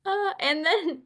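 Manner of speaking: giggling through the words; laughing. Real, not acted. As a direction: laugh while starting again. Laughing while reading names.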